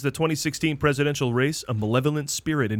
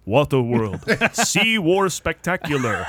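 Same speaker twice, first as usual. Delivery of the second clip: announcer voice; 3 semitones higher, slower than usual. Retold or imitated. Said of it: "Then you hear".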